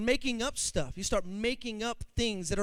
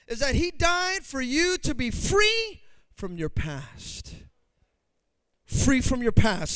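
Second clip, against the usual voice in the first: slow emphasis; slower than usual. Real, not acted.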